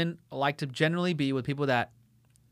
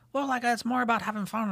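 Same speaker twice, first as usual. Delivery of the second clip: mock airy girl; 8 semitones higher than usual. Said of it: "And she was like".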